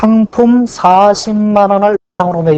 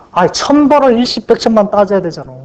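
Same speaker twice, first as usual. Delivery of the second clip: higher-pitched, mildly exasperated complaint; exasperated protest; 4 semitones higher than usual. Acted. Examiner complaining about counting digits a thousand times, exasperated. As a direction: protest at the tedious chore as the put-upon examiner.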